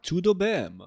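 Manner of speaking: attempted Portuguese accent. Shown as a demonstration. Streamer tests the phrase on chat, mock Portuguese accent. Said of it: "with, like, a Portuguese accent".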